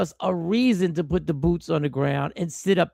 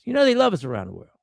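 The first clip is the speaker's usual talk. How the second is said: quick, knowing sarcasm; mock praise, fast and dry; sarcastic; faster than usual. Real, not acted. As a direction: say it as a dry joke you don't mean. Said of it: "I'm being facetious".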